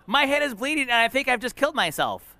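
high-pitched imitation of a panicking child; mock panic. Injured girl thinking she's done for, acted panic. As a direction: exclaim like an alarmed child. Voices daughter's frightened thoughts.

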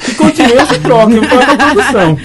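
brincando, mais alto e agudo; rindo. Real, not acted. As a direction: solta a piada rindo. Brincadeira sobre a troca. (tom de brincadeira rindo)

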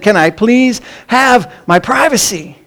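high, drawn-out exasperated plea, not shouted; irritated call back. Retold or imitated. Dad in the shower answers the knocking, mock irritation. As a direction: mildly imitate a fed-up dad, spacing the words out. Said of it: "with irritation, he shouted back".

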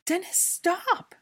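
high, loud, drawn-out scream; horrified scream. A narrator's reading. Hermione seeing Draco choked, screaming in horror. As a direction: scream to halt the attack. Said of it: "Hermione screamed in horror".

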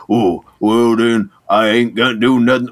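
put-on stereotyped southern miner accent, dragged out. The Thing talking like a southern miner, southern accent. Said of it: "that was a southern stereotype".

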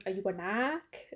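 slow mock-Boston question, drawn-out "ack"; imitated Boston accent. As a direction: stretch the A like a Bostonian. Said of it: "the accent".

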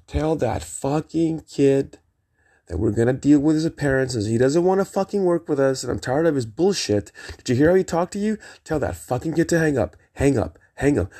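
a restrained warrior-king outburst, retold; Spartan Leonidas yell. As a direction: act out a fed-up battle command. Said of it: "immediately yelled in my Spartan Leonidas voice".

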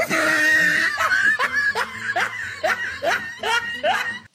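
high screaming laugh burst; loud shrieking laugh. Real, not acted. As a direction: let out a wild high laugh. Loud laugh after the intro.

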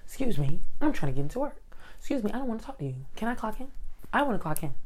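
brushing people off. Retold or imitated.

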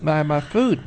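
high whiny complaint; whiny coworker. Retold or imitated. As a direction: whine like a fussy child. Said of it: "And she goes".

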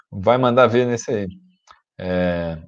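dry throat from long talking; dry mouth. Real, not acted. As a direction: talk with a parched throat. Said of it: "minha garganta tá secando aqui".

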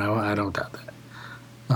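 slow dry whisper under the breath; whispered aside. Real, not acted. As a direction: murmur it half to yourself, slowly. Sarcastic aside after date mix-up.

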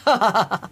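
short imitated gruff chuckle; gruff hoarse laugh. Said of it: "this kind of gruff, hoarse laugh".

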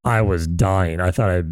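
voice giving out. Real, not acted. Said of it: "my voice is, like, shot".

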